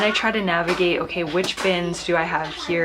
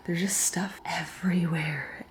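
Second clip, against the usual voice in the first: exasperated whisper; 5 dB quieter than usual. Real, not acted. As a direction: breathe it out in disbelief. Overwhelmed aside at the mess.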